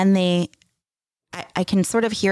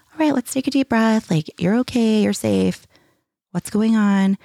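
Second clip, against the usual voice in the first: higher-pitched imitation of comforting a child; soothing parent; 4 semitones higher than usual. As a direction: talk an upset child down gently. Voicing parent comforting crying child.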